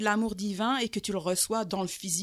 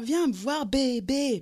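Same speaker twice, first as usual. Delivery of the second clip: put-on loud, much higher leering come here baby; drunk calling out; 7 semitones higher, 4 dB louder, much slower than usual. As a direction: call her over, high and insistent. Drunk man calling her over.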